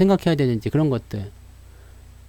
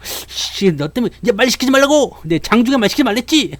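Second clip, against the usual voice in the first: high, hammed-up irritated scolding; mock fuming rant; 8 semitones higher than usual. A smoking trader scolding someone during trading hours, mock fuming. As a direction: rant like a stressed trader mid-session.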